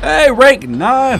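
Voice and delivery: calling out. Real, not acted. Calling out to a game character.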